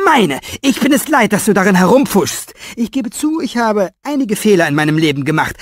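high, loud furious shouting; hammering Meine home; furious old author. A narrator's reading. Old author claiming his world, furious shout.

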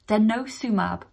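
DENOSUMAB said carefully in one piece; careful pronunciation. Real, not acted. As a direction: carefully repeat Denosumab with a falling end. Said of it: "need to say it slowly".

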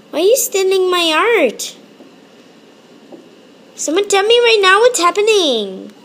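rising, pressing demand; odd put-on voice. Real, not acted. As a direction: strange voice. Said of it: "I don't know why I'm speaking like that".

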